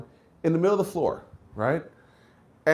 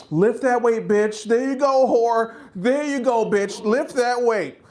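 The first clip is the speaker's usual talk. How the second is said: cheering gym guys; 6 semitones higher, slower than usual. Retold or imitated. Gay gym men cheering girls.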